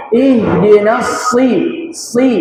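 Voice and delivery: si with a heavy emphatic s; slow ihdinas si, the s held and thickened; thick sad. Shown as a demonstration. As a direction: press a full, dark s into si.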